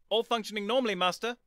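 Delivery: high, loud robotic report. Acted. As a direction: answer like a robot dog.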